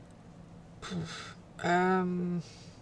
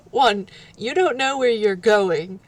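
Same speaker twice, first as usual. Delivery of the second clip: louder, firmly counting off reasons; firm objection; 5 dB louder than usual. Acted. Companion stopping someone who doesn't know the way, firm objection. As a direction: lay down the objections with more volume. Acted listing of objections to leaving.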